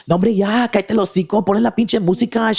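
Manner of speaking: high mock drunk woman yelling in Spanish; imitating a rowdy drunk chola; drunk chola heckler. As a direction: heckle the comic like a drunk aunt. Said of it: "and I do this".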